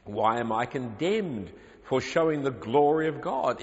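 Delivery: objector's voice. Retold or imitated. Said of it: "the objector continues".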